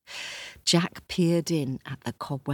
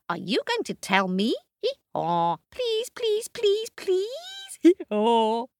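much higher pleading bray; begging donkey; 3 dB louder than usual. Acted. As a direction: beg over and over.

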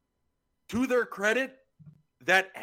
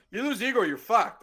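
higher, punchier insistent repeat; emphatic restatement; 7 semitones higher, 5 dB louder than usual. Real, not acted. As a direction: throw the argument back with force. Throws the quoted argument back emphatically.

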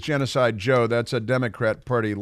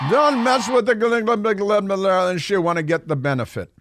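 mocking repeat; 5 semitones higher than usual. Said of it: "mocking repeat of garbled line".

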